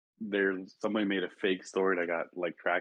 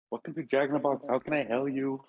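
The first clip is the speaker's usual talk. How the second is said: higher-pitched imitated Mexican accent; 5 semitones higher than usual. Friend quoting the George Lopez skit, Mexican accent. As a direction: do a drive-thru greeting in a Mexican accent. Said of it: "he basically said with a Mexican accent".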